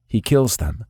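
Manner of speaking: stunned repeat with stress on kills; shocked echo. A narrator's reading. Nikolai repeats Alina's words in shock, stress on kills. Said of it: "My eyes widened".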